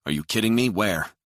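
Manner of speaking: sudden alarmed question; shocked disbelief. A narrator's reading. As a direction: react in shock. Mahoney shocked by news.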